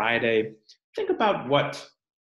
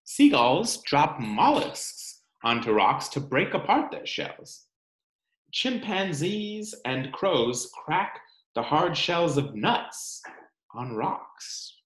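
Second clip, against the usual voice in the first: put-on reading to children; 2 semitones higher than usual. Teacher reading the rock book to her class, storytime narration. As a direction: read it aloud for the class.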